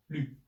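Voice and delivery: "lü" as a short firm falling tone; fourth tone, strong. Shown as a demonstration. Teacher drills the pinyin syllable, strong fourth tone. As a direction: say "lü" sharply downward with rounded ü. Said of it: "the fourth tone".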